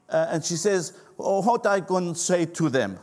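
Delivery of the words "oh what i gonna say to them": put-on mom's lightly Greek-accented English. Mother answering her pastor son, mild Greek accent. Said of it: "in her Greek accent".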